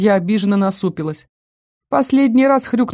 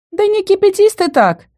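peaceable pleading; 12 semitones higher, 3 dB louder than usual. A narrator's reading. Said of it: "миролюбиво попросила Эльза".

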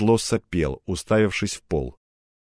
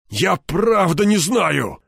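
slow, much higher whining plea; plaintive drawl; 7 semitones higher, much slower than usual. Acted. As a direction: drag it out pitifully. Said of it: "жалобно протянул он".

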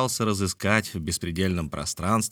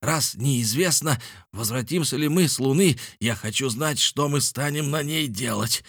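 raised, insistent demand; sharp demand; 6 semitones higher than usual. A narrator's reading. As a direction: press sharply for an answer. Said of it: "резко произнёс Николь". (резко, требовательно)

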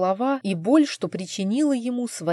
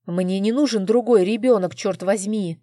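usual speaking voice

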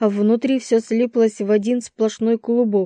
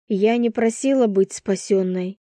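usual speaking voice

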